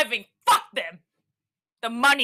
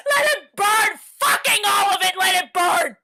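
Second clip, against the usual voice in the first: 1 despairing outburst; 4 semitones higher, 4 dB louder than usual. Acted.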